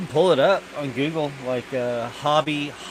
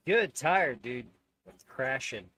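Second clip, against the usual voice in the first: muffled, noise-gated mic audio; noise reduction artifacts. Real, not acted. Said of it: "The background noise reduction was messing with my stuff".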